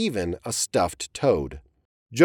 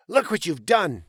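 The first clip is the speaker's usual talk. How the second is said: yelled; 7 semitones higher than usual. Acted. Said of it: "He turned to Alvin and yelled".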